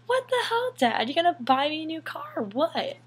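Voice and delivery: high, loud demanding whine; confronting dad about the broken car; indignant demand. Retold or imitated. Demanding dad buy new car.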